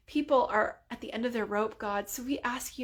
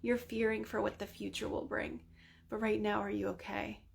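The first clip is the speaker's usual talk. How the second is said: gentle reply; 6 dB quieter than usual. Retold or imitated. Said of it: "And he's like".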